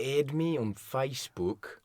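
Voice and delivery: slow, careful Australian "Add me on Facebook"; Australian accent. Shown as a demonstration. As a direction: show how an Australian says it. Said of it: "No, that's not it".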